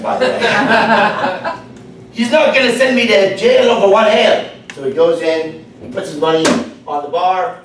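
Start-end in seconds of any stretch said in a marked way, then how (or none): 2.1-4.5 higher-pitched put-on Irish brogue; jokey Irishman protesting in an Irish accent. Irishman reasoning about one drink, Irish accent. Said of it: "That's my Irish accent".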